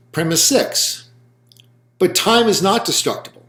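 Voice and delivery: spoken out slowly for note-taking; lecturer's slow dictation with long pauses. Real, not acted. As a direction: dictate in measured phrases, pausing between each. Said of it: "I will just speak it out slowly".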